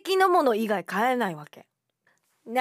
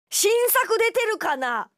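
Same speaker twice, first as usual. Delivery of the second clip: excited; 10 semitones higher, 6 dB louder, much slower than usual. Retold or imitated. Acting out browsing a shop.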